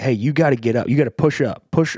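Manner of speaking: insistent, urging, yelling. Recounting standing behind the goal urging him on, retelling yelling at someone. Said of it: "I'm like yelling at him".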